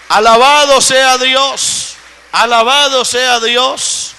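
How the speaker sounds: slow, drawn-out cry of praise; praise exclamation. Real, not acted. Preacher praising God before the congregation, drawn-out exclamation. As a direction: proclaim it to the whole church, stretched out.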